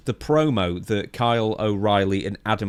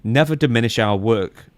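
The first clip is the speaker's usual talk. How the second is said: lightly hammed-up pompous reading; mock solemn statement; 3 semitones higher than usual. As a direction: read it like a grand proclamation. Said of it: "translation of a mysterious social media post".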